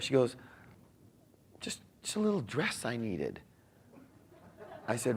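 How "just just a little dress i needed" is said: small, much softer voice, imitating the wife; downplay it very quietly and hesitantly; sheepish wife. Wife downplays new dress to husband, sheepish.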